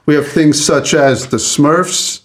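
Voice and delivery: lightly voiced Southern lawyer; easy salesman charm with a hint of drawl; honeyed southern lawyer drawl. Shown as a demonstration. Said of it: "I would like to do it in this voice".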